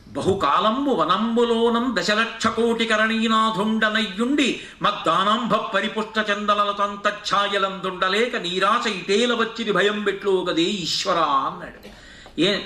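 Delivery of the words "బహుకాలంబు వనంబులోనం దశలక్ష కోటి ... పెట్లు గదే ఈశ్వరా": slow, sustained poem chant; verse recitation. Acted. Preacher reciting the elephant's prayer to God, slow recitation. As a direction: draw out the long compounds, ending on a held call.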